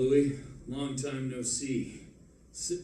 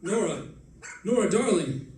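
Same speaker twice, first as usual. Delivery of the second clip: joyful call; 7 semitones higher, 5 dB louder than usual. Acted. Husband calls finding wife.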